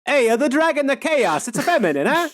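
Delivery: high, loud lecturing impression; Jordan Peterson voice. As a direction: push it up like a pundit. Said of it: "without doing a Jordan Peterson voice".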